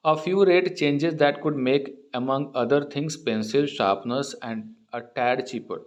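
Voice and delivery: reads the English news line word by word, very slow; slow reading aloud. Acted. Teacher reading the newspaper aloud to students, slow and deliberate. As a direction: read it slowly so students can follow.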